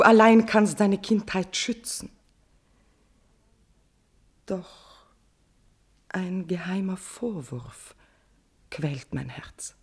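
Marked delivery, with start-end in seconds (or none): 4.5-9.7 unvoiced, slow whisper; a secret whispered torment; whispered confession. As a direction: breathe the guilt out in a whisper. Queen confessing secret guilt.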